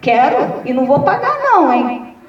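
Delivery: the speaker at a funeral, demanding mourners cry; mock indignant exclaim. Retold joking protest at funeral. (indignação cômica, aguda e rápida)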